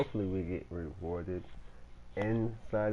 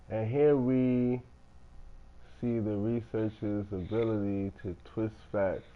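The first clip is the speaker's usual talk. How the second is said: nature documentary; 3 dB louder than usual. Pretend. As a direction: narrate like a nature documentary host. Mock documentary narration of gameplay.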